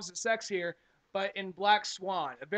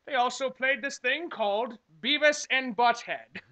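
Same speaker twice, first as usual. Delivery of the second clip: mock old-timer; 3 semitones higher, 4 dB louder, slower than usual.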